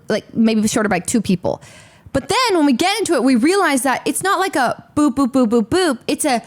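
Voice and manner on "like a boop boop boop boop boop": mock zigzag sounds. Shown as a demonstration. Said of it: "to visualize it".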